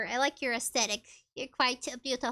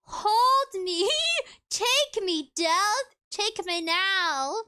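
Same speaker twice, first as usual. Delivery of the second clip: hammed-up pleading to death; dramatic plea; 4 semitones higher, 4 dB louder, much slower than usual. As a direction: beg death to take you, high and hammy. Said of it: "This small, chunky fox says".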